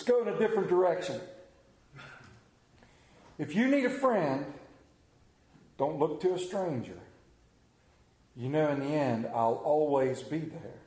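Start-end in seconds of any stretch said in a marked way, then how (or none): 3.4-10.8 recited verse. Acted. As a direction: recite each line on its own, voice sinking at the ends.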